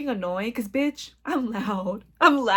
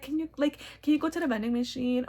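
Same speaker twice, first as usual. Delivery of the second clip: flirty; 3 semitones higher, 6 dB quieter than usual. Retold or imitated. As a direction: sweetly ask a favor. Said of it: "flirty and seductive".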